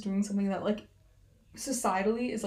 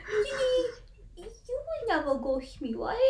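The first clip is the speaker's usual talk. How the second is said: laughing; 11 semitones higher, slower than usual. Real, not acted. Teasing friend about ghosting.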